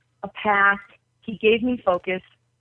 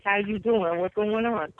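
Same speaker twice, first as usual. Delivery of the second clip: put-on demonstrating an old New York accent; casual New York street greeting. Shown as a demonstration. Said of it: "I used to talk like this".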